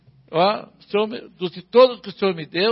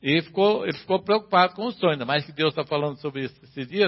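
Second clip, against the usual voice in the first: ordinary talk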